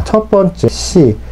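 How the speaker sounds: usual speaking voice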